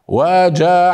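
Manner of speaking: faulty stretched وجعلناكم; over-stretched reading. Shown as a demonstration. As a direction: drag وجعلناكم needlessly. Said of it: "خطأ".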